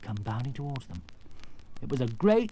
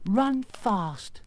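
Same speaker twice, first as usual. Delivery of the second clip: higher, urgent Scarecrow voice; 8 semitones higher, 4 dB louder than usual. Acted. Scarecrow warning the lion to escape, urgent. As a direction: urge him to flee.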